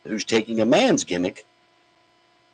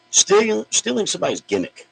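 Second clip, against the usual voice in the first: much higher and louder on "stealing"; outraged exclaim; 12 semitones higher, 4 dB louder than usual. Real, not acted. Host exploding over gimmick thieves, high and loud. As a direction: exclaim it in disbelief.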